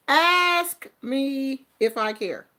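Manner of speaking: slow, drawn-out dare; slow defiant challenge. Real, not acted. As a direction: spell it out slowly, daring them. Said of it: "Do you wanna ask me?".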